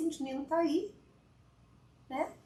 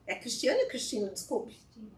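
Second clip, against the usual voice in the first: usual speaking voice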